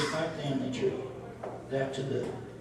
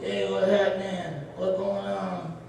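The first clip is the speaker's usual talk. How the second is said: puppet voice; 2 semitones higher, slower than usual. Shown as a demonstration. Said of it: "I developed your voice".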